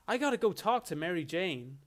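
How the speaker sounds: lightly voiced generic American hero; middle-class white American hero voice, lightly done; Spider-Man. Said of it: "generic white American male hero, middle class voice".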